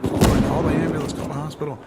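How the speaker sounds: urgent high-pitched retold plea; freaked-out mom. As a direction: imitate a panicking mother calling for help. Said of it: "Mom freaked out".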